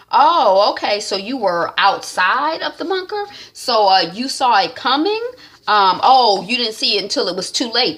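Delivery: lightly voiced Daniel, suspicious and pushy; Daniel quizzing Nick. Daniel questioning Nick, a lightly voiced suspicious grilling. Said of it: "Daniel is like".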